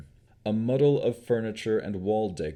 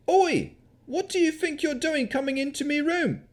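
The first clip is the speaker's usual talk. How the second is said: put-on high, loud yokel shout in a country accent; indignant country yokel accent; 4 dB louder than usual. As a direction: bark at intruders in a broad country yokel accent. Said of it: "His accent mimicked that of a country yokel".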